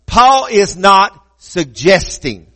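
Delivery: slow, deliberate "Paul is not suggesting", pausing before "suggesting"; emphatic. Shown as a demonstration. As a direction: set "suggesting" apart after a weighted pause. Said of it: "let me emphasize this".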